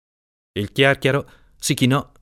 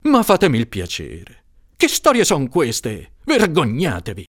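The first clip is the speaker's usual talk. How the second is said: angry shout; 5 semitones higher than usual. Acted. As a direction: scold him, slowing on the question.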